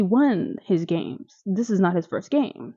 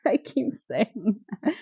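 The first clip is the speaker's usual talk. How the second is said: slower, said through a laugh; laughing repeat; 4 dB quieter, slower than usual. Real, not acted.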